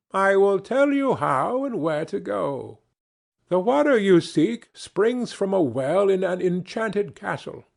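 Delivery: a helpful imp sharing a secret; kindly dwarf. Acted. Dwarf tells the polite prince how to reach the well, kindly and high.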